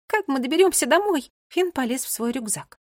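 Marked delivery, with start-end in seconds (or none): 0.1-1.3 high, anxious little voice; small high-pitched worried question; thin little voice. A narrator's reading. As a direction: ask thinly, at a loss. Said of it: "спросила Мира тоненьким голосом".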